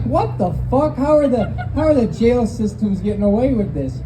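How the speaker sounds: shocked disbelief. Retold or imitated. Shocked retold reaction.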